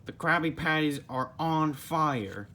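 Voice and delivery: a hammed-up panicked shout about the fire; alarmed call. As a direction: sound the alarm, urgent. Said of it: "called Squidward".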